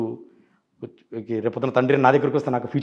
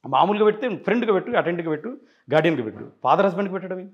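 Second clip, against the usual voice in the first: higher-pitched, pressing challenge; mildly forceful, indignant retold question; 6 semitones higher than usual. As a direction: re-enact grilling the lawyer with rising heat. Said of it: "question గట్టిగానే అడిగాను".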